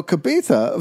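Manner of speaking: "Cabeza" with th for z; deliberate lisp. Shown as a demonstration. Teasing the co-host by keeping it up, lisped "Cabeza". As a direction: say "Cabeza" as ka-BEE-tha. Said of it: "I'm gonna keep doing it".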